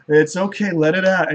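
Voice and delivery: soothing. Acted. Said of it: "The god's like".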